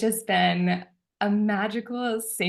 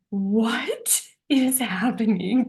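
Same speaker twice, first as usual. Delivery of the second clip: slow, breathless whisper; stunned whispered question; awed whisper; 3 semitones higher, much slower than usual. Retold or imitated. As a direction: hush it out in disbelief. Full body chills, retold amazement.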